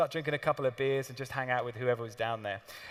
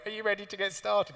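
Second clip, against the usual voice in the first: higher-pitched eager question; eager imitation; 5 semitones higher than usual. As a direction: mimic keen visitors at the door, pitched up. Eager trainees waiting at front door.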